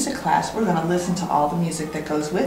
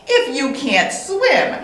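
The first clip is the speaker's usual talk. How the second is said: laughing taunt; 5 semitones higher, slower than usual. Acted. Duck mocks bird.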